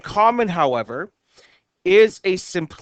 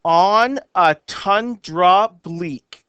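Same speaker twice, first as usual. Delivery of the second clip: poem reading; much slower than usual. Shown as a demonstration. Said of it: "It says".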